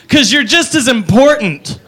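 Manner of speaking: put-on slow, earnest drunk girl; lightly voiced drunk sincerity. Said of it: "she goes".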